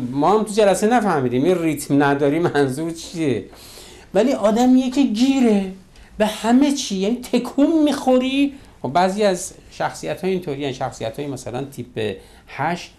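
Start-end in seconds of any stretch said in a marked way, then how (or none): 4.1-8.5 high, loud and exasperated; loud exasperated outburst. Real, not acted. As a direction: throw up your hands in disbelief. Exasperated about nitpicker. (با صدای بلند و کلافه)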